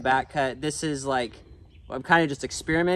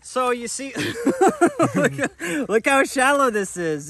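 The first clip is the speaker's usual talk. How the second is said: excited; 9 semitones higher, 5 dB louder than usual. Real, not acted. Thrilled, showing the notch.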